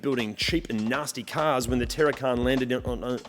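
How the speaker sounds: breathless, running out of air; speaking on the last of the breath. Real, not acted. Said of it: "I'm running out of breath".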